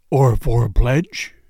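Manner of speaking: low, slow menace through bared teeth; teeth-bared panther. A narrator's reading. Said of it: "his white teeth bared under his lip".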